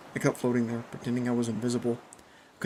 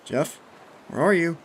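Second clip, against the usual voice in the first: calling out; 6 semitones higher, 7 dB louder than usual. A narrator's reading. Calling for silent friend.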